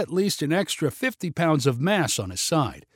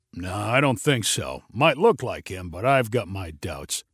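sneering; 6 semitones lower than usual. Acted. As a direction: sneer out your doubts. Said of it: "shook his head and sneered".

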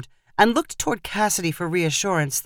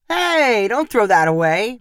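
high-pitched, protesting "hey"; urgent objection; 4 semitones higher, 3 dB louder than usual. A narrator's reading. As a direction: call out to stop her. Calls out to stop her.

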